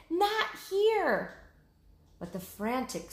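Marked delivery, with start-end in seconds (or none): 0.1-1.4 higher repeated yell, less loud; shouted again. Acted. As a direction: call out the warning once more. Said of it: "she shouted".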